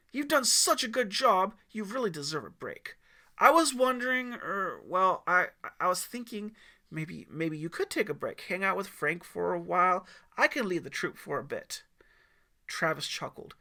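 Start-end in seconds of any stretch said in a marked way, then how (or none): 0.1-11.8 put-on nervous eager teen. Teen nervously asks to lead.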